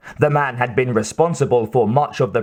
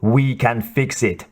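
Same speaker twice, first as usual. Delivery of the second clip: reassuring. A narrator's reading. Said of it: "his assistant assured him".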